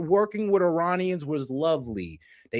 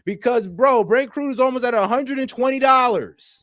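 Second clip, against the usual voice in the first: incredulous laughing shout; 7 semitones higher, 6 dB louder than usual. Real, not acted. Reacting to oil price, laughing.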